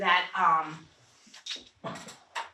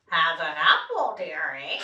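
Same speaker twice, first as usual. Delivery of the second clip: nasal witch voice; 4 semitones lower than usual. Shown as a demonstration. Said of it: "You want a nasal voice".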